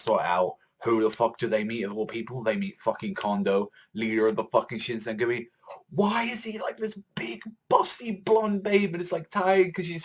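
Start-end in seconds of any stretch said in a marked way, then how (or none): 5.9-10.0 slow, hushed, higher whisper. Real, not acted. Reviewer marvels at Kondo's female form, slow whisper. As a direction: breathe it out in disbelief. Gasping at Kondo's new look.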